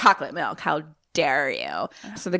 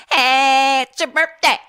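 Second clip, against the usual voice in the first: cheerful dad voice; 7 semitones higher, 7 dB louder, slower than usual. Retold or imitated. Imitating the dad's phone call.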